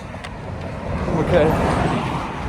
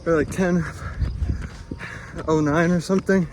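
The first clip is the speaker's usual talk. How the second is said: panting between words uphill; winded, running up a hill; out of breath. Real, not acted. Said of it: "I'm dying".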